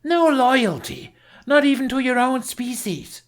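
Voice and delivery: howling accusation. A narrator's reading. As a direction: howl it at him. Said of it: "she howled".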